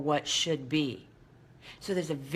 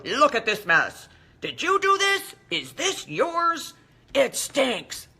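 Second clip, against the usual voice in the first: mock scolding in a higher, put-on voice; 6 semitones higher, slower than usual. Owner bringing poop to the dog's bed, hammed-up scolding. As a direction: tease the dog with a baggie, hammed-up indignation. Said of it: "while you go".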